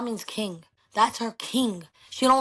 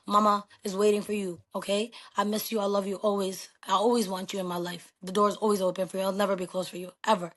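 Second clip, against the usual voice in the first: tender message. Real, not acted. Message to estranged daughter.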